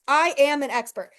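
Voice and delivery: a loud, proud "I am an expert"; declaring loudly. Shown as a demonstration. Coach showing the audience how to declare it, loud. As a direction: proclaim it like you mean it. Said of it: "Say it in the comments".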